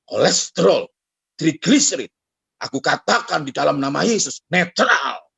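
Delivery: mock commanding prayer. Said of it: "Dia berkata gini".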